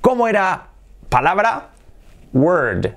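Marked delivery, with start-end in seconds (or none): 2.3-2.9 "Word" held slightly into a voiced d; lengthened word. Shown as a demonstration. Teacher reviewing palabra, lengthened pronunciation. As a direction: stretch "Word" a little, voicing the final d. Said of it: "Alargándola un poquito por la D sonora".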